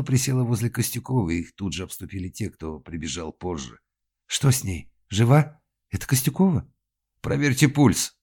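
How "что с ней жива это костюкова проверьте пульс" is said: loud high alarmed questions; shouting. Acted. Crowd panicking over the victim, loud alarm. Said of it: "крикнул Магин".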